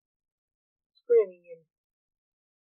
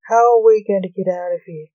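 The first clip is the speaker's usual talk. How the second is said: loud, narrated exasperation; raised voice with a touch of fury; infuriated; 8 dB louder than usual. A narrator's reading. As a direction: demand it loudly, mildly infuriated. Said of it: "Blake said, infuriated".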